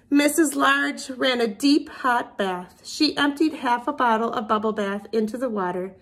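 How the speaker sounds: lively storybook reading with character voices; reading to children. A narrator's reading. Teacher reading a picture book to her class. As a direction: read it to little kids with expression.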